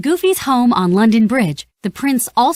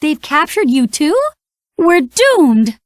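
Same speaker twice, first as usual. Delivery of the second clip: Donald in despair; 7 semitones higher, slower than usual. A narrator's reading. Donald in the dungeon cell, wailing in despair. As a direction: howl it like all is lost. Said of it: "Donald cried".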